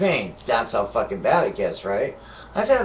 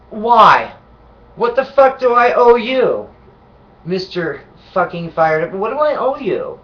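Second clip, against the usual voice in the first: higher, louder furious ranting; furious high yelling; 8 semitones higher, 6 dB louder than usual. Real, not acted. Ranting at the paramedic, shouting furiously. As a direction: tear into him, shouting.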